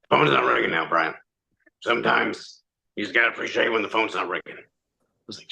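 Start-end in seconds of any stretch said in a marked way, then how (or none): 0.1-4.4 imitating a sage, lightly gravelled voice; sage and gravelly. Friend advising Brian to put the phone down, mock-sage and gravelly. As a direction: lightly mimic gravelly words of wisdom. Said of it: "That is sage and gravelly".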